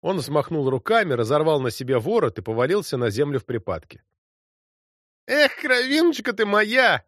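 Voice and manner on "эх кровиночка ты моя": slow, much higher, drawn-out wail; wild cry. A narrator's reading. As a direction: cry out wildly in the fit. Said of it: "закричал он дико". (дикий протяжный крик)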